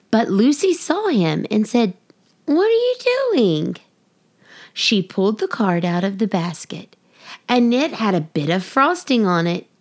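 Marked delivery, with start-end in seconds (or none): 2.5-3.8 much higher, startled question; surprised question. Acted. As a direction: catch him in the act, amazed. Lucy catches Sparkle.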